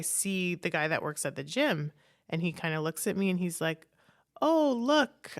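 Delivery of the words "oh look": a touch of a sneering high gym guy; mocking gym guy. Gym guy mocking her in front of her husband, lightly sneering.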